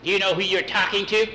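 high, loud, quick challenge; angry witch. Acted. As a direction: challenge the boy angrily. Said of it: "Hilda got angry".

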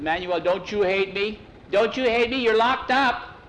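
rising, pleading cry, slowing at the end; distraught boy pleading with his jailed friend; anguished plea. Acted. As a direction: beg him to hate you, voice climbing.

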